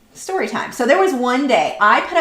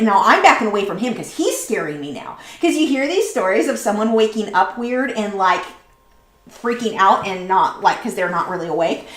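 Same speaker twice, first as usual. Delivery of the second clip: normal talking voice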